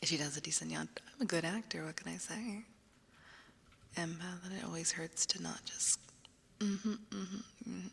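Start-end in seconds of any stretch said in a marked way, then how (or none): 0.0-6.0 whispering. Acted. ASMR whisper.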